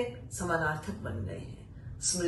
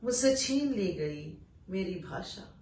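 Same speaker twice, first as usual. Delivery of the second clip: poetry recitation. Acted. Reciting an exile poem to listeners, solemn recital. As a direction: let each line land, then pause.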